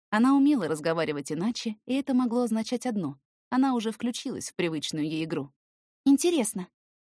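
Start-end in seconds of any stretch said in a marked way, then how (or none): 6.0-6.7 put-on high teasing girl voice. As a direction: tease him playfully.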